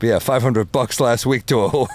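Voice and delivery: the line redone, a lighter Rodney voice; corrected Rodney punchline. Retold or imitated. Retelling Rodney's joke, the fixed take. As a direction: land the punchline cleanly this time. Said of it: "let me redo that".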